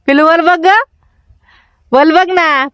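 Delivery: high coaxing call. Real, not acted. Coaxing baby to look up.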